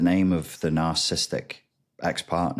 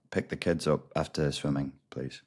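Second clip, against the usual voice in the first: softer, flat bored request; bored response; 3 semitones lower, 6 dB quieter than usual. Retold or imitated. To ex about the kids, softer bored reply. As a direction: say it as if it bores you. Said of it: "a three-word response".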